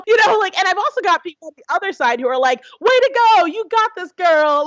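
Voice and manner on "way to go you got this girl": high, bright cheering for a friend; mock cheer. Quoting cheering online supporters, high excited mock cheer. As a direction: hype her up like an online fan.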